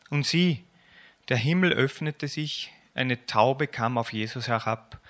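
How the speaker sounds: lebhaft erzählend vorgelesen, lauter als sein Gespräch; erzähl es wie für Kinder beim Vorlesen; Vorlesen aus der Kinderbibel. A narrator's reading. Reads children's Bible aloud. (lebendige Kinderbibel-Lesung)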